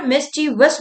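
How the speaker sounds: "मिस्चीवस" in three syllables, mis-chee-vus; correct pronunciation. Shown as a demonstration. Teacher repeats the right word for students, "मिस्चीवस" as mis-chee-vus. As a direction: say "मिस्चीवस" ending in vus, without an extra ee. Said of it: "क्या होता है ये word?".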